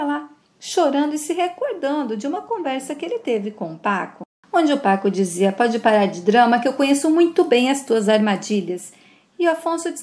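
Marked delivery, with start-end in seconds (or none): 5.5-8.9 stern rebuke. Acted. Son rebuffs father's pleading.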